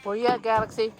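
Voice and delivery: loud, high call across the yard. Real, not acted. Owner calling her hen Galaxy across the yard, loud.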